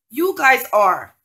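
loud, slow, pointed accusation; angry outburst. Real, not acted. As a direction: lean hard on each word. Angry rant at callers.

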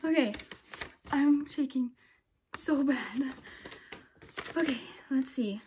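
soft unvoiced whisper, shaking; nervous whisper. Real, not acted. Waiting for the test result, nervous whisper. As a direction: whisper it as nerves take over.

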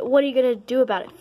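fast mocking challenge; taunting. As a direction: rattle it off to provoke. Bully taunts a rival.

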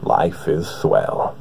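Morgan Freeman impression. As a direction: speak as if there's no trouble at all, slowing down to a breathy finish. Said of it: "Now, Morgan".

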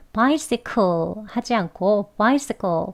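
bicycle said very slowly, k as a tense 끄; slow contrast of bicycle, hard tense k; tensed k sound. Shown as a demonstration. Teacher contrasting bicycle with a glottal stop and tense k. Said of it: "끄, 쌍기역에 해당하는 된소리로 발음했습니다".

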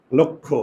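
লক্ষ্য said as "lokkho"; same sound as লক্ষণ; pronunciation demo. Shown as a demonstration. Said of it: "দুইটার উচ্চারণ একই".

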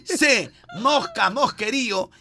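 quiz question read-out. Acted. Lee pregunta del concurso, deletreando opciones.

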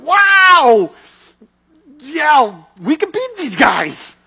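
loud, high excited cheer; sudden courage. Retold or imitated. Israel's armies seeing Goliath fall, loud excited cheer. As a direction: fire up like soldiers finding their nerve. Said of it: "this courage in their heart".

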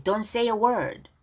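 deliberate read-along with pauses; pronunciation model. Shown as a demonstration. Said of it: "발음 따라하기".

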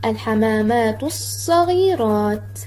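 الحمامات الصغيرات slowly linked as "hamaamaatus-saghiraat", long s; mid-sentence sun lam. Shown as a demonstration. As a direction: glide from الحمامات into a doubled s, no l in الصغيرات. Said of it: "إذا جاءت في كلمة في وسط الجملة".

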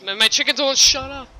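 fed up and venting; irritated shout; exasperated. Real, not acted. Annoyed at noisy chickens.

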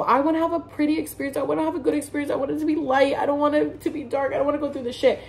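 high, lightly whiny wants; whiny past self. Retold or imitated. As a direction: mimic her younger anxious self. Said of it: "But I was like".

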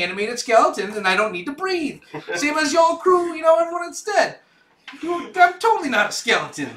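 high, loud spooky skeleton. Acted. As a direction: voice a boastful undead skeleton pirate. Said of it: "Well, I need a skeleton voice".

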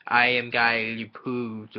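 slow, roughly imitated French accent; mock French accent. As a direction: drag it out in a half-hearted French accent. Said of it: "he kinda talks in, like, this".

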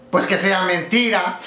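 punchline broken by high laughter; laughing punchline. Real, not acted. Teller laughing through the boyfriend's answer.

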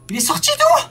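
high shrill panicked question; panicked squeak. Real, not acted. Scared gamer asks where the monster came from, panicked. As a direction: squeal it in shock.

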